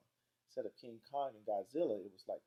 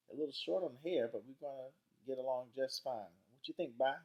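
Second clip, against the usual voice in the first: lightly voiced grandma, a bit higher; chatty grandma; 5 semitones higher, 4 dB louder than usual. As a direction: size up a grandson as granny. Grandma Sands chats to Byron.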